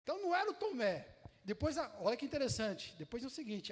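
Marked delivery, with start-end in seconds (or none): 0.0-1.1 surprised realization. Real, not acted.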